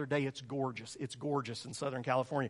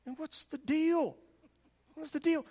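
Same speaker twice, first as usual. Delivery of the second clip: frustrated plea; 13 semitones higher than usual. Retold or imitated. Pleading with God, frustrated.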